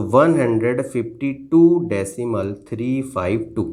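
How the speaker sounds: slow, measured reading of the number; demonstrated number reading. Shown as a demonstration. Teacher showing pupil how to read decimals, slow demonstration. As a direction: read it out slowly, drawing out "टू डेसिमल". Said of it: "इसी तरह से आपको पढ़ना है".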